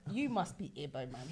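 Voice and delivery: retold line with a laugh; laughing quote. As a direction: chuckle through the remembered greeting. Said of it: "but I was like".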